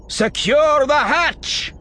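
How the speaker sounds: loud, slow, forceful command; shouted order. A narrator's reading. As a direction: bark the order over gunfire. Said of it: "she said to Eshko".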